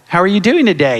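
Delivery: light pet-talk voice. Retold or imitated. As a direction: coo at the puppet like an animal. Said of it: "I'm like".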